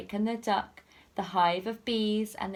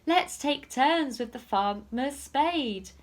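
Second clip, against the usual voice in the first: gloating thieves; 7 semitones higher, 3 dB louder than usual. Acted. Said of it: "The two thieves laughed".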